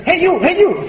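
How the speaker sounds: high-pitched parrot call; talking parrot. Acted. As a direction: squawk it like a parrot. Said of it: "the parrot says".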